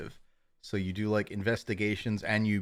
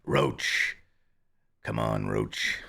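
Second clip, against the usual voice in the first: low gruff call; 12 semitones lower, much slower than usual. Pretend. Geralt calls his horse.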